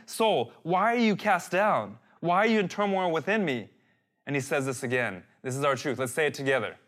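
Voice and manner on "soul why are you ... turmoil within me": higher-pitched, pointed questioning of yourself; mildly reproachful, insistent whys; accusatory. Acted. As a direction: take your own soul to task. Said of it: "It's like he's accusing his soul".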